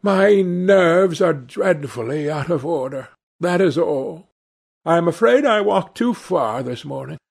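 a touch of high, nervy apology; shaken Dorian excusing himself. Acted. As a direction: make polite excuses as someone unwell.

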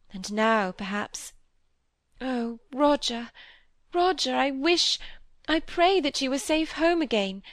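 a touch of anxious longing; wistful young girl. Acted. Molly voiced by reader.

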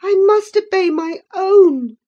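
put-on high, loud insistent girl; firm retort. A narrator's reading. Catherine firmly answering Linton she must obey her father. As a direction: stress MUST, resolute. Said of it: "she replied".

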